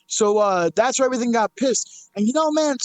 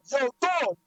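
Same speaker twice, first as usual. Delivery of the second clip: retold shout, pitched up; loud greeting; 4 semitones higher, 4 dB quieter than usual. Streamer retelling how he hailed someone, loud greeting. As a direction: call out like a naturally loud person. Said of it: "I'm a naturally loud person".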